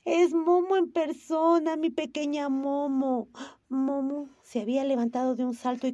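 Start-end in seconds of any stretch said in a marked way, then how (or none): 0.1-3.3 high, loud and slow with delight; overjoyed. Acted. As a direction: savour every word of joy. Gigi overjoyed at reunion.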